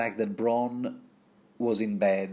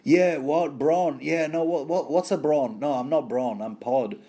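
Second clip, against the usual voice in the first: higher-pitched muddled questions, settling down; confused on waking; 5 semitones higher, 3 dB louder than usual. Acted. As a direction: act befuddled, just shaken out of a dream. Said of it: "coming from a dream".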